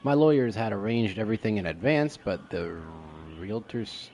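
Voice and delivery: emphatic, projected note reading; dramatic reading aloud. Pretend. Player reading a landowner's note, emphatic reading. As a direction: punch out the start of each phrase.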